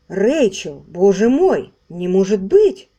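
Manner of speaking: loud, slowing cry of disbelief; dismayed loud outburst; shocked exclamation. Acted. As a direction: refuse to believe it, out loud. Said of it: "нахмурясь, воскликнул Ричард Трихерн".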